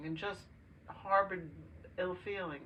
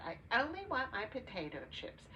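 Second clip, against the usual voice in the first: put-on whiny child; 6 semitones higher than usual. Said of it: "he wanted only to eat potato chips".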